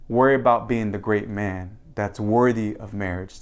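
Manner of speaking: usual speaking voice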